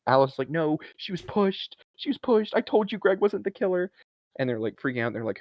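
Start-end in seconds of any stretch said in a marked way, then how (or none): 0.5-3.9 acted-out yell at moderate volume, pitched way up; mock yelling. Alice insisting to the group she was pushed, mock yelling. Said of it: "she starts yelling".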